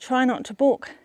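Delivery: huffing and puffing while climbing; panting out the words; out of breath. Real, not acted. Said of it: "Sorry about my huffing and puffing".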